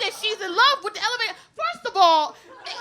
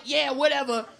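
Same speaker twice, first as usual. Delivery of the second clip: mock dismissive shout; 3 semitones lower, 6 dB louder than usual. Townsfolk dismissing Amber.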